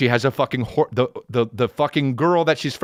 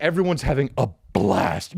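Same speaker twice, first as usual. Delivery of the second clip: ordinary delivery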